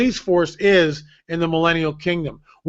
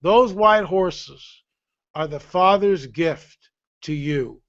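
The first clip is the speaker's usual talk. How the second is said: solemn; much slower than usual. Retold or imitated. The Holy Spirit revealing the gift to him, slow and solemn. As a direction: lay the words down slowly like a gift. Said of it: "he says this to me".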